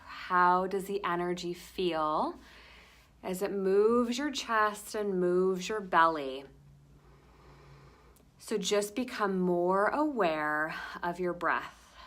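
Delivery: gentle meditation pacing with long pauses; guided meditation. Acted. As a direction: lead them into the breath, unhurried.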